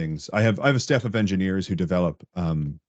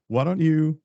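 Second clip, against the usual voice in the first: high, coaxing mock-patient tone; humoring engineer; 7 semitones higher than usual. Engineer shooing the manager aside, mock patient. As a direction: steer a meddler away like a child. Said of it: "they come in and like".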